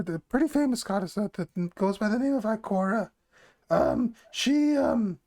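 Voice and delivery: lightly voiced goblin woman; hesitant goblin woman, feeling for words. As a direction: put on a modest goblin voice. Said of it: "I have to do the goblin voice".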